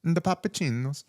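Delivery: an Italian way to say "The Papacinos"; Italian accent. Pretend. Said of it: "I guess it would be more like".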